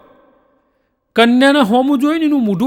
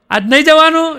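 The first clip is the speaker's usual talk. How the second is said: higher, louder order; bossy command; 6 semitones higher, 3 dB louder than usual. Acted. Wife ordering the big officer husband to sit, bossy. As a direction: bark it like the boss of the house.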